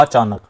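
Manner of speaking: "अचानक" lightly split as अ-चानक, sound unchanged; same sound, split. Shown as a demonstration. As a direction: say "अचानक" with a small break, नक intact. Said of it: "बिल्कुल same वही आ रहा है". ("अचानक" को हल्का तोड़कर, नक जुड़ा रखें)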